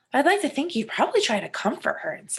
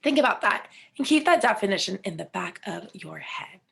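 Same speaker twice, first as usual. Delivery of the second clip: whispering; 3 semitones lower than usual. Acted. Teacher whispers instruction.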